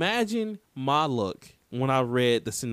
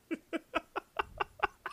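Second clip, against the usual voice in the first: real high, wheezy laughing fit; cracking up in high-pitched peals; helpless high cackle; 13 semitones higher, 12 dB quieter than usual. Real, not acted. Host cracks up at absurd game.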